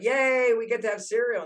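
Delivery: high, loud "Yay" that trails into a happy cheer; cheering kids. Retold or imitated. Kids cheering about cereal at breakfast, high and loud. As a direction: squeal like excited children.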